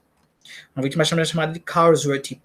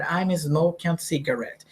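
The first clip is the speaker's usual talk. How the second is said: slow model sentence; 7 dB quieter than usual. Shown as a demonstration. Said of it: "a gente tá fumando lá cigarro".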